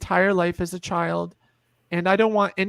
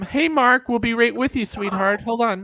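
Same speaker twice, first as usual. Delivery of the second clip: higher, louder friendly call across the room; 4 semitones higher, 3 dB louder than usual. Real, not acted. Telling Mark to wait, higher and louder call.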